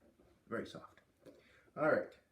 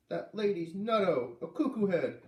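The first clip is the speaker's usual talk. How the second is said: put-on upset little boy; 7 semitones higher, 6 dB louder than usual. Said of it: "Luke said".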